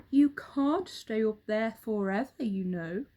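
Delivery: a friendly bird warning the monkey; a hint of a cheerful bird; roly-poly bird.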